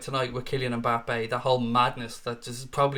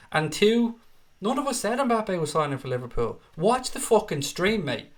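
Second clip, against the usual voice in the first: angry; 6 semitones higher than usual. Real, not acted. Telling off a rude viewer.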